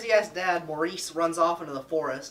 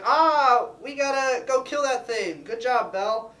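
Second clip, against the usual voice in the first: high, loud outcry; rally the crowd in a mock panic; alarmed mob; 7 semitones higher, 6 dB louder, slower than usual. Townspeople form a mob.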